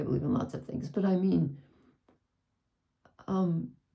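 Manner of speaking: speaking through tears, crying through words. Speaking to someone about loving a person, crying while speaking. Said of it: "I'm sorry, I can't stop crying".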